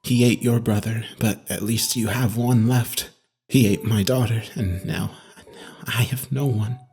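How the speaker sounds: deep, soft voice, slowing at the end; low and hushed, with drawn-out final words; hushed inmate. A narrator's reading. Bereft inmate telling his therapist of his loss, hushed. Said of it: "he whispered".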